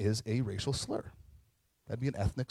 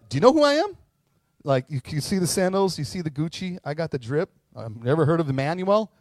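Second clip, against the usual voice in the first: much higher, louder mock bragging; arrogant boast; 4 semitones higher, 6 dB louder than usual. Jesus imagined bragging to the woman, loud and cocky. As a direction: strut like a big shot showing off. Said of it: "And he could have said".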